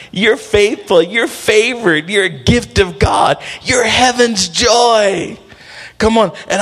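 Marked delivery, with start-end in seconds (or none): 0.1-5.4 higher, building to a drawn-out shout; rousing affirmation. Acted. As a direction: build the praise into an exultant cry. Affirmations build to a preaching climax.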